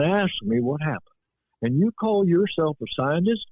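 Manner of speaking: light Southern accent, imitating a plain-spoken Mississippi man; understated Southern accent quoting a witness. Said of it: "I used the accent".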